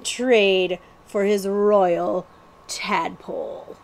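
slow, relishing scheme; scheming outlaw. Acted. Billy plans the prince's ransom to Cutwater, slow and scheming. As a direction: savour the ransom plan.

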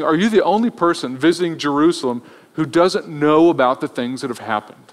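mildly sarcastic imitated question; a touch of disbelief at such ignorance. Disciples answer a stranger visiting Jerusalem, mildly sarcastic. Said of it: "it's a pretty sarcastic response".

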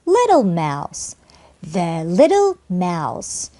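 slow, deliberate teacher's model reading; measured model reading for learners; phrase-building demo. Shown as a demonstration. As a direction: say it slowly, one small chunk at a time. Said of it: "단위로 가는 순으로 연습하면은".

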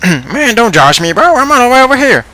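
very high, squeaky toy voice; high-pitched, indignant stuffed toy; squeaky Mister Snuggles. Acted. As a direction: protest in a tiny high toy voice.

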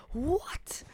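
high, whispered what; imitating a baffled player under breath; mock whisper. Mocking the blue guy's confused reaction, whispered. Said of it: "And he's like".

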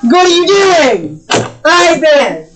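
high-pitched calling out to a misbehaving cat; exasperated scolding. Real, not acted. Player to cat climbing into the cabinet, exasperated scolding.

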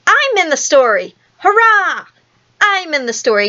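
high, jubilant outburst peaking on hurrah; thrilled child. Acted. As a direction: cheer in delight, pitch soaring. Boy thrilled to be in story.

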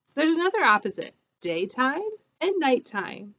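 bright, lively storybook voice; reading to children. A narrator's reading. Teacher reading a picture book to her class, bright and lively. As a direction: read it like storytime for little ones.

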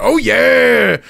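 imitating Otis's catchphrase; Otis impression. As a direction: belt it out like a goofy strongman. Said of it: "doing his, like".

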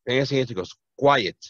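normal talking voice

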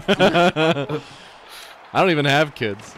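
high, loud, drawn out through laughter; laughing confession. Real, not acted. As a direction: crack up while admitting the joke. Confessing the bit amid laughter.

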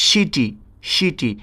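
"সিটি" said as shiti, opening on sh; pronunciation demo. Shown as a demonstration. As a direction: model "সিটি" twice, slowly separated. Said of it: "দন্তের স্বর মতো উচ্চারিত". ("সিটি"-কে শিটি-র মতো উচ্চারণ)

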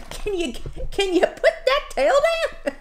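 amused plea dissolving into laughter; laughing. Real, not acted. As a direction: ask it through a laugh. Dog interrupts, she cracks up laughing.

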